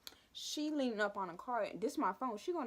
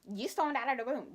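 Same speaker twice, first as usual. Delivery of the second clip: mock teacher; 4 semitones higher, 5 dB louder, faster than usual. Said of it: "This is Barbie".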